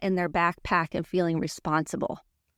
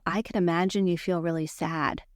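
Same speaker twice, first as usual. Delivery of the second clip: calm, gentle empathy; safe, empathetic tone. Shown as a demonstration. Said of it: "Now watch my tone".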